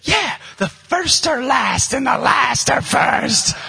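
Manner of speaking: put-on smug kid. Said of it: "he's like".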